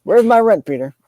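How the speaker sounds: high, loud demanding landlord; angry landlord. Retold or imitated. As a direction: bark it like a fed-up landlord. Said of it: "Peter's landlord?".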